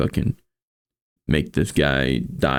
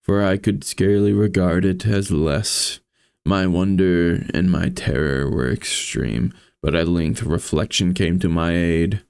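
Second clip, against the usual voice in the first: measured, somber storytelling read; story narration. A narrator's reading. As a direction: read it like a gothic tale. Reads Poe story aloud.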